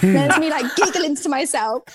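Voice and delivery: giggling while talking; laughing. Real, not acted. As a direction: chuckle through the words. Laughing while retelling panic.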